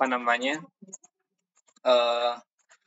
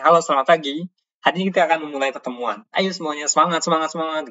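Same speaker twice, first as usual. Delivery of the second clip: cheerful energetic greeting; 4 semitones higher than usual. Shown as a demonstration. Speaking teacher demoing lively intonation to the class, energetic and bright. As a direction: pump up the room like an opening host with rising semangat, semangat.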